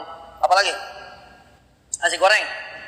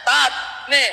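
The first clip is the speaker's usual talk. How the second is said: retold delight; 5 semitones higher than usual. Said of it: "dia bilang sama saya".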